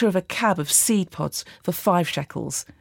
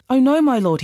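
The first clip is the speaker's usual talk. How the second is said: higher-pitched cry of dismay, restrained; 6 semitones higher, 4 dB louder than usual. A narrator's reading. Axe man to Elisha after losing the axe head, dismayed cry. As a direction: cry out in mild alarm, voice lifted. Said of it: "he cried out".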